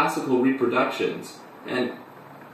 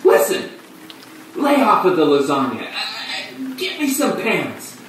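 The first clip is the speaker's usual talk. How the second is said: shrieking; 4 semitones higher than usual. Acted. Half-stripped narrator shrieking at the clown for pants, acted shriek. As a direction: shriek the orders, breaking off then drawing out the last. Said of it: "I shrieked".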